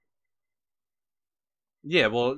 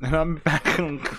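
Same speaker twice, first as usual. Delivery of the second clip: slow drawn-out repeat; 7 semitones higher, slower than usual. Retold or imitated. Listener repeats the punchline.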